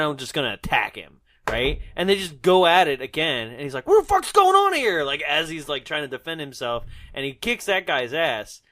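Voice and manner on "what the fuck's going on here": high, loud outburst; mock startled yell. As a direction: yell it as a fighter caught off guard. Startled fighter acted in retelling.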